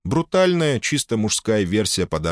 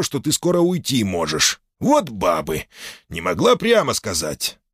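grumbling hearty boss; gruff port boss; 5 semitones higher than usual. Acted. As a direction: grumble it up, half laughing. Manye complaining.

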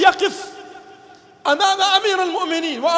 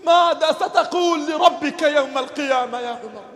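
preaching lament. Acted. Preacher lamenting to Umar about today's rulers, impassioned. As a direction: call out to Umar as if he could hear.

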